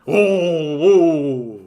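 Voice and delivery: hammed-up dismay at real rioting; mock horror. Same viewer horrified at real riots, mock horror.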